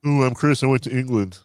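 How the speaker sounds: teasing, mock-boastful imitation; mocking a co-host. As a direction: lightly mimic your friend showing off. Mocking co-host's England anecdote.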